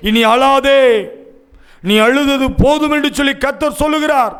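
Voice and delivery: insistent, ringing declaration; fervent proclamation. Real, not acted. Preacher delivers the Lord's command to stop weeping, proclaiming insistently. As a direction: declare it firmly as God's own word.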